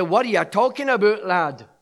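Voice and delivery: lightly imitated Scottish accent. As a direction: put on a touch of Scots, dropping on the last word. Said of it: "with his Scottish accent".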